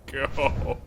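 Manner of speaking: high, loud, slow hammed-up begging; mock desperate plea. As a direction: ham up a tortured plea for mercy. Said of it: "I'm just like".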